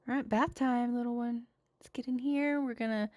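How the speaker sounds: put-on sing-song baby talk to a little one; playful parent voice for bath time.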